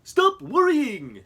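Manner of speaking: slow, high, loud goofy moose; Bullwinkle voice. Acted. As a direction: drawl it out big and proud. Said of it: "said Bullwinkle".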